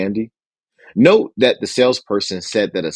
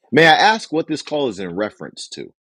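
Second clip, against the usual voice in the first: screening assistant; 4 semitones higher than usual. Shown as a demonstration.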